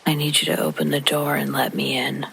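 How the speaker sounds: flat monotone woman's voice. Retold or imitated. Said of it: "a woman in a monotone voice".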